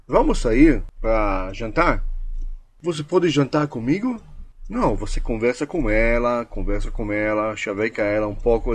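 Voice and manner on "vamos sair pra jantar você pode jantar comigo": hesitant date invitation, rising question; asking permission. Shown as a demonstration. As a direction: ask for dinner as if needing permission. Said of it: "sugestão foi uma permissão".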